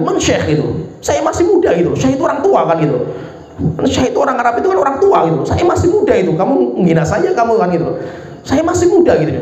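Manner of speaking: a hint of an irate Yemeni sheikh; mock angry teacher. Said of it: "Beliau marah itu".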